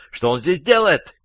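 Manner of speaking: high, alarmed woman's outcry; женский крик. A narrator's reading. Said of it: "заорала женщина". (возмущённый женский крик)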